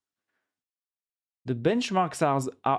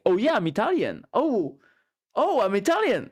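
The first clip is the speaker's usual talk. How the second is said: mocking American boast; 7 semitones higher, 6 dB louder than usual. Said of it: "they will be like".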